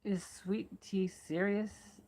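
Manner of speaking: whispered slowly, under breath. Shown as a demonstration. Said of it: "I'm not gonna do the Southern accent".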